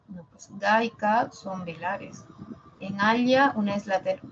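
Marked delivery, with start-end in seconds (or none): 3.0-3.5 "ala" said as "alya", with a palatal lateral; "ala" with the tongue on the palate. Shown as a demonstration. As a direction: sound out "ala" with l gliding into y. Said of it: "palatal y la otra es alveolar".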